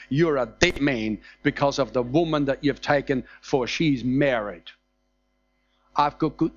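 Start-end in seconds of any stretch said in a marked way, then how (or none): 0.1-4.7 grave warning. Acted. Preacher reading God's death warning to Abimelech, low and grave. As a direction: drop the voice low and spell out the doom.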